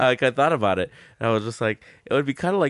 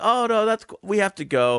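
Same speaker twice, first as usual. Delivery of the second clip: mock very polite, gracious, high put-on voice; 9 semitones higher than usual. Retelling how a fellow comic, Jen, turned down partying: imitating Jen politely declining. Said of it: "Jen was being very polite".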